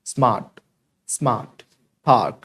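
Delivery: स्मार्ट, पार्क as "smaat, paak"; silent r. Shown as a demonstration. Teacher showing how it is done, silent r. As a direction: say स्मार्ट and पार्क with no r, low and falling. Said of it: "ऐसे करके".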